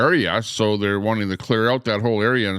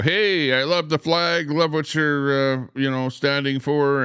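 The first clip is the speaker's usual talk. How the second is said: higher-pitched imitation of someone calling over; mock yell; 5 semitones higher than usual. Some guy hailing the golf cart driver, mock yell. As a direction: call it out like a passerby, without real volume. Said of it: "yell over and go".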